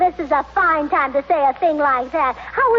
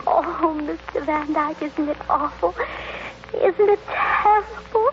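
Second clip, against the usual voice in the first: weepy; 4 dB quieter than usual. Acted. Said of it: "You mustn't cry like that".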